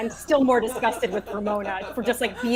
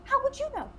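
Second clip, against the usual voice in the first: acted indignant disbelief; 7 semitones higher than usual.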